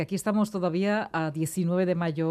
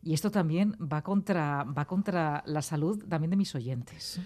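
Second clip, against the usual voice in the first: slowing down; slower than usual. Real, not acted. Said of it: "hablo demasiado rápido".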